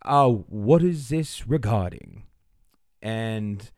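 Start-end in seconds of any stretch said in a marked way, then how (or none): 0.0-2.2 slow, lightly voiced household butler; Mister Pimbleton. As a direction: draw it out as a formal servant. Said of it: "Mister Pimbleton goes".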